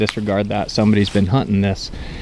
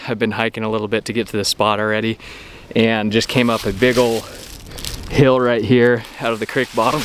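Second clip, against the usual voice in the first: winded from the uphill hike; out of breath. Real, not acted. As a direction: breathe hard between words. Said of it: "If I sound like I'm out of breath, I am".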